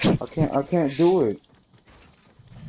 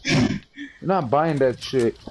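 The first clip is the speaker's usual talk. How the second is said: stern; slower than usual. Real, not acted. Telling brother off.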